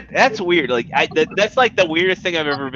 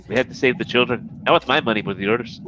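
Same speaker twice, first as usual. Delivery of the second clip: lightly put-on Irish rock star accent; rock-singer impression; 5 semitones lower, much faster than usual. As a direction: do an Irish singer's accent making a pitch. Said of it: "the best accent I can do is a rock singer's".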